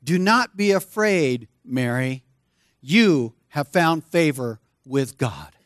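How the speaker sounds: a hint of the angel speaking tenderly; gentle angel reassurance. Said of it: "He says to Mary".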